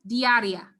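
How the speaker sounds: "Diarrhea" with a long stressed I, dee-ah-REE-ah. Shown as a demonstration. Teacher repeats "Diarrhea" for class, stressed I. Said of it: "the stress has to go right here, the long sound".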